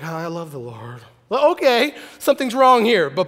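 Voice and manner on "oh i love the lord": mopey Christian. Retold or imitated.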